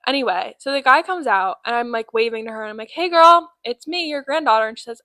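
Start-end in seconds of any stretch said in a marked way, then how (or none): 2.9-4.7 bright high call across the arrivals hall; calling out to grandma at the airport. Retold or imitated. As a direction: wave and call out to her, higher and louder.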